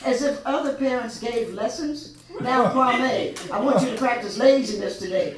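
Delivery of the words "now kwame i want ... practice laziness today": louder, hammed-up parent lecture; mock scolding parent. Mock parent scolding Kwame about laziness, loud and joking. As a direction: scold a child, tongue in cheek.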